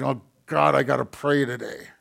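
mock grudging sigh, dragging the words; imitating a churchgoer who dreads praying; reluctant groan. Churchgoer mocking his own reluctance to pray, grudging groan. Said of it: "walking around going".

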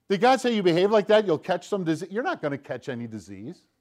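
lightly acted tempter questioning God's word; Satan. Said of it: "Here's what he says".

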